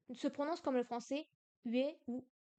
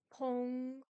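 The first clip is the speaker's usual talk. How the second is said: Tong pushed out on a burst of breath; airy whispered Tong; breathy aspirated. Shown as a demonstration. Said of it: "en expirant de l'air".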